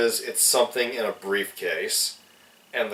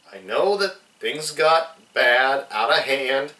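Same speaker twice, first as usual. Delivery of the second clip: whiny pleading; 3 semitones higher than usual. Retold or imitated. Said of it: "he has a good whiny voice".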